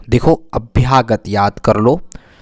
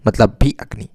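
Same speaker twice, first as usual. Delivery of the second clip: whisper; 2 semitones lower than usual. Real, not acted. Teacher whispers the gloss.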